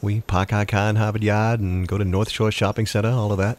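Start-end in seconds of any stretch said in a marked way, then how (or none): 0.2-1.6 Boston accent with dropped R's; light demo of a New England accent. Shown as a demonstration. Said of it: "leave our R's off".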